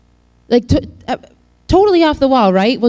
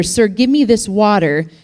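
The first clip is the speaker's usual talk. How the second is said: sarcastic; 3 semitones higher than usual. Retold or imitated. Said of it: "sarcastic here".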